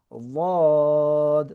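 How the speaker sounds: slow, drawn-out "ওয়াদ" with tongue side on the molars; Arabic letter dad. Shown as a demonstration. Teacher demonstrating the letter to students, slow heavy dad. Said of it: "বলতে হবে ওয়াদ".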